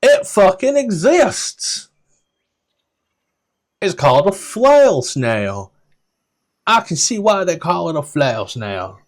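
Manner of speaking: a guide delighted by the monster; thrilled NPC shout. Acted. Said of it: "And then goes".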